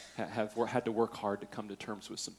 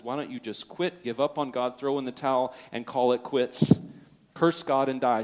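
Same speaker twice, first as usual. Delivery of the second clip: louder, mounting retold challenge; insistent urging; 2 semitones higher, 7 dB louder than usual. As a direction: push the quote harder, phrase by phrase. Wife urges Job to quit.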